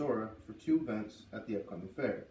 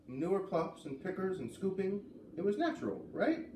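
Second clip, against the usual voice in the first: rising higher toward a pleading right?; hopeful question; 6 semitones higher than usual. Acted. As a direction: talk yourself into it, climbing up. Girl seeks reassurance about manure.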